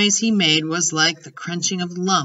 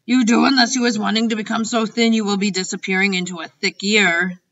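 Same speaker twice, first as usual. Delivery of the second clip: quick, raised giant's warning; lightly voiced warning giant; 4 semitones higher, 4 dB louder than usual.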